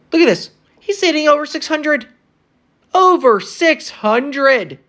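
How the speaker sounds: high, disbelieving rant at the stats; can't believe what he's seeing; incredulous. Real, not acted. Frustrated fan ranting to viewers in disbelief.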